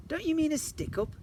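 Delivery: high, loud bungling robber; silly robber. Acted. Robber bungles his hold-up, high and loud. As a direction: play the hapless robber. Mrs Jolly asks.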